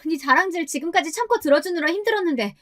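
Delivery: high-pitched outraged friend; acted indignant outburst, high and scolding; indignant shrieking. A narrator's reading. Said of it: "발끈해서 소리를 빽 질렀어요".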